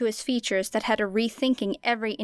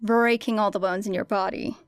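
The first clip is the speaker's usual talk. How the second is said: dry. Acted. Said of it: "said Era dryly".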